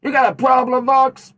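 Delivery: high-pitched indignant comeback; defensive retort. Pretend. Storyteller challenging Vox over the blowing, high and indignant. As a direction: fire back in a high, touchy squawk.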